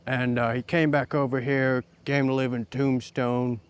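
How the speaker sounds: put-on lightly drawn western cowboy accent. Cowboy partner yarning about the town doctor, in a western accent. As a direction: play an Old West gunslinger in a cowboy accent. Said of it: "Sorry about the accent".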